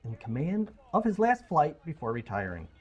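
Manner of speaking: dramatic movie-trailer read; trailer voiceover. Acted. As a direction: narrate it like a film trailer. Reads Gravity synopsis.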